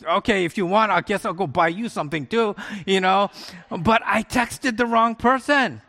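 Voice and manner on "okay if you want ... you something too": confused reply. Retold or imitated. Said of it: "And I go".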